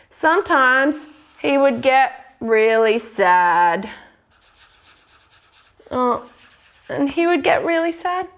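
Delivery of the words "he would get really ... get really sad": slow, low storytelling sadness; low, drooping pretend sadness; mock sad. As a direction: draw it out sadly for children. Acting out the drawn man's sadness.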